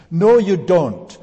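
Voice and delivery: slow, loud and firm, every word weighted; emphatic denial. Real, not acted. Preacher rebuts the idea of confessing to a priest, loud and slow. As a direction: shut the idea down hard.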